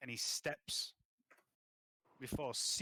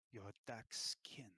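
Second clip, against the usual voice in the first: whisper; 2 semitones lower, 6 dB quieter, slower than usual. Acted. King studies the character.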